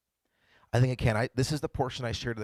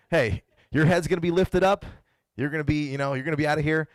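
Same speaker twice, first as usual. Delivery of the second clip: raised, louder, falsely good-news delivery; higher, upbeat setup for a nasty punchline; mock mean buildup; 4 semitones higher, 5 dB louder than usual. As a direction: set up cruel news like good news. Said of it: "kind of a mean way to say it".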